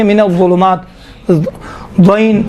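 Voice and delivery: الظلمات and ضوئین with a heavy ظ; ظ pronunciation. Shown as a demonstration. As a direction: thicken the z-sound of ظ in الظلمات. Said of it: "ضوئین کا تلفظ نکلتا ہے".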